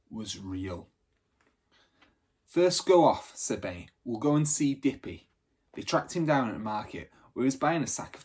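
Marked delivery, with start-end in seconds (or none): 2.5-5.3 put-on higher, louder eager boy; a lightly voiced lad giving orders; Benny taking charge.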